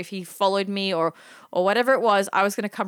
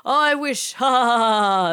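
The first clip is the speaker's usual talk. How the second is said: higher, hammed-up old man's guffaw; laughs it off; 3 semitones higher, 5 dB louder than usual. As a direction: imitate a creep laughing off his wish. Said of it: "Laugh, laughs it off".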